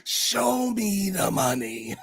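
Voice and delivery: drawn-out mock quote. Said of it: "She like".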